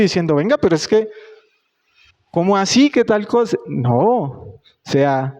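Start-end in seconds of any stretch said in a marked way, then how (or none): 0.3-3.6 higher, indignant talk-back; mock indignant retort. To his boss at work, retelling how he snaps back with mock indignation. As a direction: push back at the boss, half-acted.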